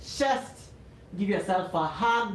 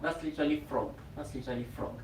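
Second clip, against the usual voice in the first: each repeat softer until almost gone; fading to a murmur; 4 semitones lower, 7 dB quieter, faster than usual. Shown as a demonstration. Teacher repeating the pose name, fading softer. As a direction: let it die away into near silence.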